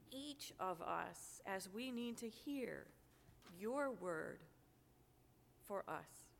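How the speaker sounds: prayer. Acted. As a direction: pray it unhurried, with pauses. Pastor's opening prayer.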